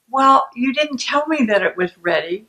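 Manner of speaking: mildly defensive comeback; a touch of protest, pushing the blame back. Acted. Partner answering a shaming remark, defensive. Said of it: "you know, gets defensive".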